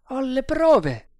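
high, loud, slow assertion; insistent sergeant. Acted. Sergeant assuring the captain of proof, insistent.

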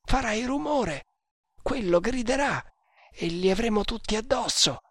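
high-pitched, worried servant voice; servo allarmato. Acted. Servo teme di essere scoperto. (voce acuta da servo preoccupato)

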